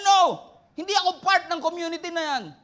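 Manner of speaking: loud, high indignant denial; heated mock denial; angry denial. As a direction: push the accusation away. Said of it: "And he was angry".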